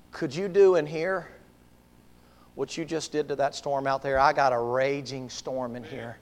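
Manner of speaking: subdued confession growing firmer; lightly voiced tormented man. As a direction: plead with restraint, listing each trouble. Preacher plays demon-possessed man pleading.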